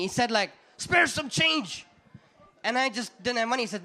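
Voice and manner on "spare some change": high, drawn-out mock begging call; homeless guy. Homeless guy begging from a passerby, drawn-out mock plea. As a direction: imitate a beggar, stretching the words slowly. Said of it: "a homeless guy came up to me".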